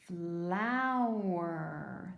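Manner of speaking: "Flower" stretched slowly on the ow; drawn-out ow sound. Shown as a demonstration. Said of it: "There's that ow, like in cow".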